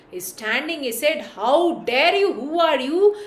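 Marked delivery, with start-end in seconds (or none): 1.4-3.2 bear challenges. Acted. Huge bear confronts Krishna.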